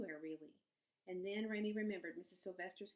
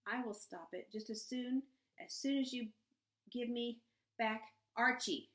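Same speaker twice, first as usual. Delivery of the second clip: shouting; 4 semitones higher, 5 dB louder than usual. A narrator's reading. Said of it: "shouted Louisiana".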